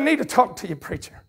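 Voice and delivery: soft retold plea, fading away at the end; burdened, troubled. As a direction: quote a troubled man, letting the words sink. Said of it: "he was really burdened and troubled in his heart".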